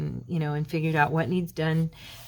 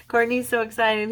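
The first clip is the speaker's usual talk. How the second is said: higher-pitched happy gush; real excitement; 6 semitones higher, 3 dB louder than usual. Real, not acted. Vlogger telling viewers how Courtney feels, excited. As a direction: still thrilled, pitch lifted. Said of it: "I'm so excited".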